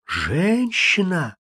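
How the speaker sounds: soft, slow, scared "Женщина!"; frightened whisper. A narrator's reading. Кэролайн в испуге шепчет страшную догадку. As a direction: breathe the word out in fear. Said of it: "прошептала она почему-то испуганным голосом".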